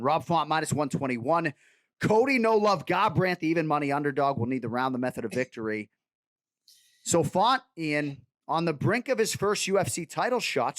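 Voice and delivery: a mock Boston sportscaster's read of the matchup; playful Boston accent for the main event. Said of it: "I'm gonna do this entire prediction in a Boston accent".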